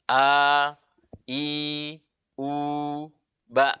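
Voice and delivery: A, I, U held freely, BA stopped short; steady drilled vowels, glottal stop ending BA; loose open hamzah. Shown as a demonstration. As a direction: release each vowel without squeezing, then clip "ba" shut. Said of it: "dengan suara yang longgar".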